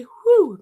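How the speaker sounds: high, loud whew of relief; audible sigh of relief; relieved whew. Real, not acted. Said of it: "makes me feel a lot better".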